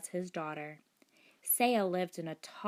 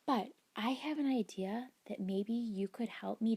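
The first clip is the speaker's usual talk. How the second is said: whispering; 3 semitones higher than usual. Acted. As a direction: hush it like a secret. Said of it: "Saya continued".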